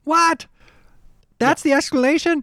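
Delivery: high incredulous what; stunned disbelief, voice jumping up; surprised. Real, not acted. Shocked by anticlimactic explanation.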